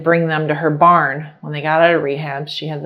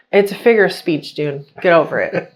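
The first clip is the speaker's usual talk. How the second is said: dismissive retort; 3 dB louder than usual. Retold or imitated. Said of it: "I was just like".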